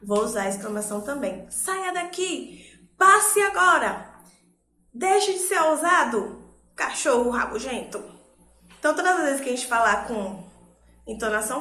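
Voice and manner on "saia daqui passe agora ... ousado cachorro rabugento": sharp, higher scolding of a dog; angry exclamation. Shown as a demonstration. Teacher demonstrating exclamation, shooing a dog angrily. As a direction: drive the grumpy dog off. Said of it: "E se eu estiver brigando com alguém?".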